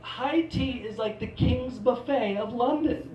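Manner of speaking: ordinary talk, nothing marked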